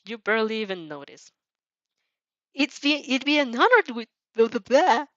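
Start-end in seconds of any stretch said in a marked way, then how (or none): 2.5-5.0 higher, louder, brushing off the formal line; mock formal rehearsal. Shown as a demonstration. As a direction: rattle off the set phrase dismissively.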